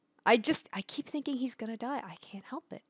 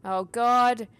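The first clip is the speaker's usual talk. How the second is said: loud, high cry of dismay; stricken, raised voice; real dismay; 4 semitones higher, 8 dB louder, much slower than usual. Real, not acted. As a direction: exclaim in shock at bad news. Learns the friend is dead.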